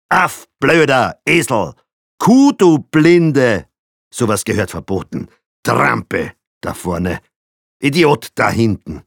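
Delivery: high, loud insults at other drivers; angry driver cursing. A narrator's reading. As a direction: yell abuse from behind the wheel. Father curses other drivers.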